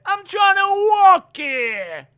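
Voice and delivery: put-on loud, high shouted Texas accent. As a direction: yell it in a jokey Texas accent. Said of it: "That's my Texas accent".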